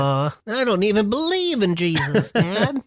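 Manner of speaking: high, put-on kid voice; protesting kid. Kid talking back to dad about praying, protesting.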